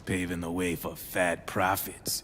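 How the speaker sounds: soft whispered hint of profit; conspiratorial whisper. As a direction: whisper the temptation. Dealer hints at illegal profit.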